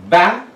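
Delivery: "Battery" broken into ba... te... ry with clear pauses; syllable by syllable. Shown as a demonstration. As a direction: separate the three syllables of "Battery". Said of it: "Three syllables have come".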